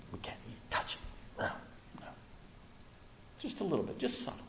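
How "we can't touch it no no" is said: whispered. Acted. Eve's added rule voiced.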